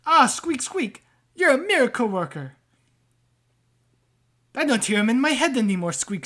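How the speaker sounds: a rat-man jumping out of his skin; startled rat-man. Acted. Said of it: "he looks at it and he goes".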